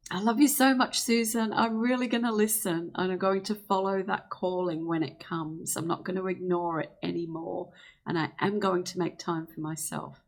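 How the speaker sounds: a warm promise to yourself; heartfelt affirmation. Shown as a demonstration. Scene: Susan promises her body she will listen, heartfelt. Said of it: "So it's".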